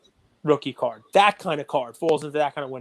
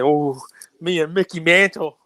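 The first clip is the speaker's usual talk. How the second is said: mock swooning fan; 4 dB louder than usual. Gushing over his Mantle card.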